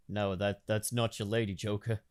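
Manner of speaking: ordinary delivery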